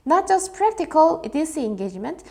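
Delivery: "Not just" read slowly and stressed; slow emphatic read. Shown as a demonstration. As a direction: lean slowly on the contrast. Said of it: "이런 것뿐만 아니라".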